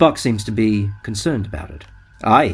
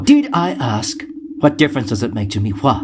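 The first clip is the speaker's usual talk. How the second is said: bad mood. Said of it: "I seem to be in a bad mood today".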